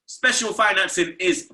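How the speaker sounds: steady sponsor ad read. Acted. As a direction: sell it like a host-read ad. Reads sponsor ad.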